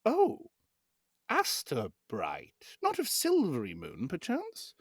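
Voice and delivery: high, drawn-out, knowing bounty hunter. Acted. The bounty hunter probing the stranger's name, in a slow, sly, high voice. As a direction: stretch the name out slowly, then lift to a sly question. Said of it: "the other one goes".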